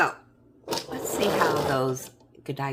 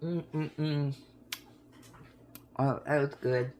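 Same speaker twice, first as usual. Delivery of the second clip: chewing, mouth full; savoring a mouthful of chocolate; messy loud eating; slower than usual. Real, not acted. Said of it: "I'm gonna talk with my mouth full".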